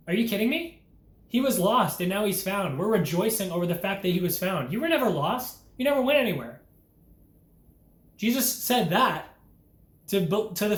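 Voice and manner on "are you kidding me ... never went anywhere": incredulous father. Retold or imitated. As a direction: act amazed that anyone would complain. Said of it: "And then your Father says".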